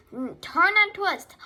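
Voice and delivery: high, loud goose call; honked call. A narrator's reading. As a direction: honk it out as advice. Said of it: "honked the goose".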